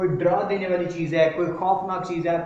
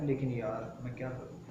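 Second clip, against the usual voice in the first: mock helpless sigh; 5 semitones lower, 12 dB quieter than usual. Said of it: "जैसे आप कहते हैं".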